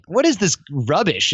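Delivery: exasperated rhetorical question; retold incredulity. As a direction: scoff at an obvious scam. Retold disbelief at quick-fix schemes.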